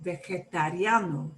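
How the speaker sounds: vegetariano run together in one go; fast natural version. Shown as a demonstration. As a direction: say vegetariano fluently, without breaks. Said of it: "When it comes out fast".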